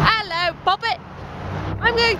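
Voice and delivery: high, hammed-up Cockney; bad Cockney accent. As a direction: do a terrible mock-Cockney British voice. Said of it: "That's a Cockney accent".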